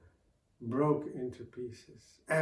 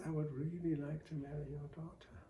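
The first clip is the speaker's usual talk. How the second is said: gentle; 2 semitones higher, 6 dB quieter, faster than usual. Acted. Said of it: "very gently, very kindly asked".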